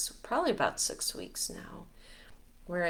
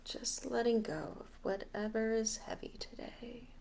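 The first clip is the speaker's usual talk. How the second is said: guided meditation; 2 semitones higher, 5 dB quieter than usual. Acted. Leader guiding listeners to let heavy energies go, guided meditation. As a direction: ease them through each breath, unhurried. Leads a breathing release meditation.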